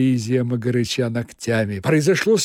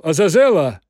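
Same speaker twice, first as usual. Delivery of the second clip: calling out; 2 semitones higher, 7 dB louder than usual. Acted. Woland summons demon.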